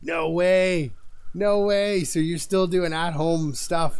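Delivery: high, loud no way; real amazed outburst; surprised disbelief. Real, not acted. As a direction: gasp out no way in delight. Reacting to chat news.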